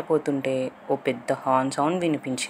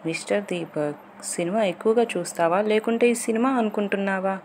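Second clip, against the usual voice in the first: scolding with hidden affection, rising at the end; mild anger, affection; 5 semitones higher than usual. Acted. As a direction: tease him crossly but fondly. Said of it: "కాస్త కోపం, ప్రేమ తెలియకుండానే". (కోపంతో కూడిన ప్రేమగా గద్దించడం)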